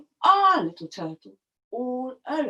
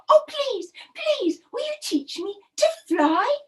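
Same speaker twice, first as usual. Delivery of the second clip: higher, begging; pleading turtle; 8 semitones higher than usual. Acted. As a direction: plead once more. Turtle asks the geese.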